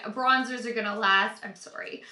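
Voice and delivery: words cut off by a sneeze about to come; fighting a sneeze, voice dropping to a breath; holding back a sneeze. Real, not acted. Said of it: "I'm trying not to sneeze".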